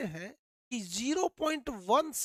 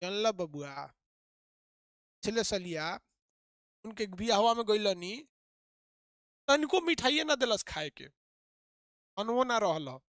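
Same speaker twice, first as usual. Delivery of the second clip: village woman. Retold or imitated. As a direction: drag out each phrase with long gaps. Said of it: "दो second का gap रख देती है".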